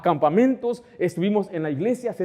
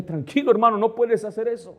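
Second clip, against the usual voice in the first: higher-pitched urging to calm down; acted-out caution, pitched up; retold remonstrance; 5 semitones higher than usual. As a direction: rein in a rash colleague. Retold remonstrance with a rash pastor.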